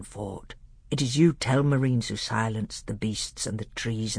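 lightly voiced doctor revealing forbidden history; grave, intent teacher to a young prince; solemn old tutor. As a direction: unfold the secret lore with solemn weight.

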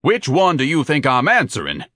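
hollering. A narrator's reading. Huge applicant indignant at a silly question, hollering. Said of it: "Ignatius hollered".

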